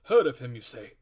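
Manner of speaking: the squire can't believe the doctor's question, shouting; incredulous cry. A narrator's reading. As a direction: cry it out in disbelief. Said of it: "cried the squire".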